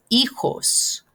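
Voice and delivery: "hijos" said slowly as EE-hos; "hijos" drawn out, J sounded like English H; silent H, breathy J. Shown as a demonstration. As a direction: say "hijos" with no first H and the J as an H. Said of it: "J is more like an H sound".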